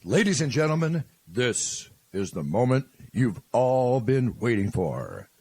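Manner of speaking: big arena announcer call. Shown as a demonstration. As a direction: announce it to the crowd. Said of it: "you say what I tell you".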